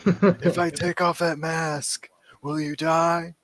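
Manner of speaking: slow, high mocking villain voice; sneering masked villain impression; Bane voice. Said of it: "that's the voice he's doing".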